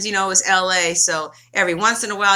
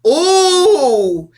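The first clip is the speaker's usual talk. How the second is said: laughing ooh; 6 semitones higher, 9 dB louder than usual. Real, not acted. Gleeful lead-in before the reveal.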